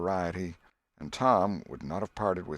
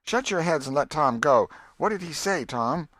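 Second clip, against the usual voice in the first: put-on louder, scolding old aunt; Aunt Polly voiced; 8 semitones higher, 6 dB louder than usual. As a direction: hush the kids, then plead for more. Aunt Polly hushes children.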